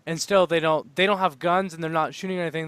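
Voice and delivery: ordinary talk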